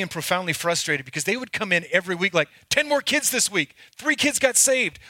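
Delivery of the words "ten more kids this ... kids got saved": higher-pitched, chirpy mock bragging; imitated excited boasting. Youth leaders reporting in each week, imitated excited boasting. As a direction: mimic friends eagerly reporting their wins.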